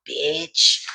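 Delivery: lightly voiced onlooker, low and unhurried; a hint of a scolding viewer, low and slow; cross watcher. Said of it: "watching this video like".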